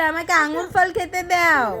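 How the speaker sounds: a hint of a child's plea, ফল stressed; model line for baby. Shown as a demonstration. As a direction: say it lightly as the baby should. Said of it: "বলে".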